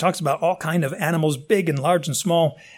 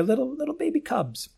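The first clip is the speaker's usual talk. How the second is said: tag; 10 semitones higher, 5 dB quieter than usual. Acted. Cooing over lion cubs.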